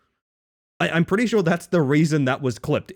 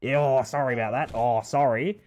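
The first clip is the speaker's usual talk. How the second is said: put-on Australian accent, offhand; casual Aussie menace; Australian Jigsaw; 2 semitones lower than usual. Jigsaw telling the victim to cut off his head, in an Australian accent. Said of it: "Australian Jigsaw".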